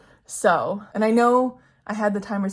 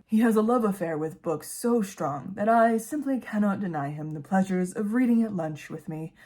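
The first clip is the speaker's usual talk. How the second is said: lightly voiced Finn. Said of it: "said Finn".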